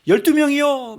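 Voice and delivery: put-on high, loud and sure, like a class of children; confident kids' shout. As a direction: call out the answer proudly. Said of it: "막 큰 소리로 자신 있게 얘기해요". (아이들처럼 크고 자신 있게 외치기)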